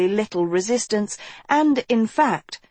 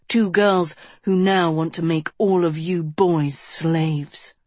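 menacing villain; 2 semitones lower than usual. Acted. Auric's menacing speech.

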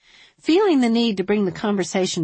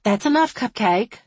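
raised, firm telling-off; 5 semitones higher, 4 dB louder than usual. A narrator's reading. Woman taking little girl from sheriff's arms, firm. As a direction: rein in a child firmly. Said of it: "Violet said firmly".

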